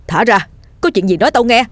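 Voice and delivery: terrified cry. Acted. Dần begging the ghost to let go, alarmed cry. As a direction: cry out in fright, slightly restrained. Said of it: "Dần kinh hãi la lên".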